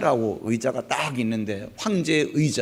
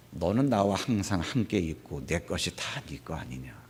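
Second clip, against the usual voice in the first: gentle father; 10 semitones lower, 9 dB quieter than usual. Acted. Father gently answers son.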